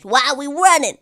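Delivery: puzzled little rat. Acted. Rats chasing along.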